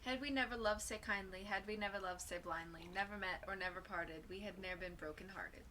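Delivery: soft, subdued poem reading; poem recitation. Acted. Reading a Robert Burns poem aloud, soft recitation. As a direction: read the verse quietly, voice sinking.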